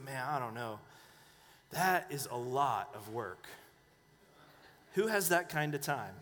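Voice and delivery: imitating a doubtful pastor, low and subdued; low, hesitant mock reluctance; reluctant pastor. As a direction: quote him balking at the effort, voice dropped, with long pauses. Acting out the pastor's reluctant reply.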